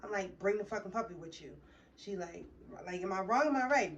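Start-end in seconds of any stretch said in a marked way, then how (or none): 3.0-4.0 raised, louder sarcastic am I wrong am I right; mocking question. Retelling the puppy fight to viewers, sarcastic mock question. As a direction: throw her question back at her mockingly.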